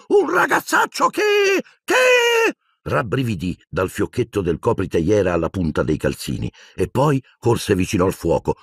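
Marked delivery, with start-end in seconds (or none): 0.1-2.5 very high, slow, halting squeak; a small elf choking on the words; stammering elf. A narrator's reading. Dobby stammering against his old masters, very high squeak.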